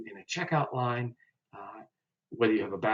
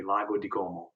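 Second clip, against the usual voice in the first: whisper; 3 semitones lower than usual. Real, not acted. Teacher names the lake.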